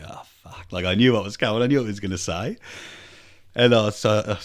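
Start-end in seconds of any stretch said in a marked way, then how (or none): 0.1-0.7 breathy whispered dread; whispered curse. Retold or imitated. Dread as son calls out.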